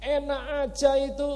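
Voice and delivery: mock outraged pope; indignant pope. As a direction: play a pope who feels robbed. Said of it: "Paus dari Vatikan lihat".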